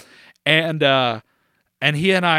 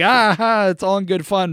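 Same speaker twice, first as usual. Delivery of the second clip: mock joking laugh; 4 semitones higher, 4 dB louder than usual. Classmate laughing off a headlock as play, mock jovial. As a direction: pretend laugh, raised pitch. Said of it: "sorta laughing and pretending".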